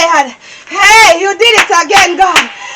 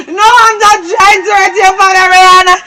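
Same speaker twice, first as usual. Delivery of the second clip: crying while telling the daughter; tearful explaining. Acted. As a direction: speak through sobs.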